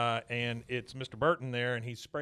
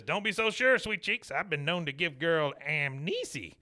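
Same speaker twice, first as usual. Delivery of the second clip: Cotton's cocky line; 3 semitones higher than usual. Retold or imitated. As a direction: brag like a dirty old charmer. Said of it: "He says".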